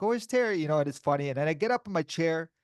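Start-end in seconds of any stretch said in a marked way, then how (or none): 0.0-0.6 imitating friends. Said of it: "and they're like".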